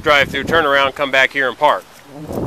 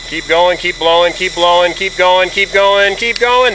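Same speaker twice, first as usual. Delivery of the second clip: building coaching urge; 3 semitones higher, slower than usual. Shown as a demonstration. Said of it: "until I tell you to stop".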